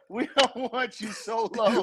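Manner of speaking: stiff, even robot voice. Pretend. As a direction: speak like a flat machine. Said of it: "You talk like a robot".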